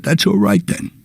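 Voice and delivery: put-on high, folksy old priest; a relieved Elmer Fudd-ish priest; Jimmy Stewart Elmer Fudd. Old priest reassuring the speaker, high pitched. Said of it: "cross between Jimmy Stewart and Elmer Fudd".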